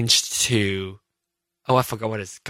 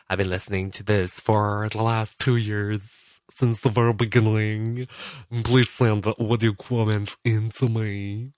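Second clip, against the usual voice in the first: mock listener voice. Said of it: "having multiple personalities tonight".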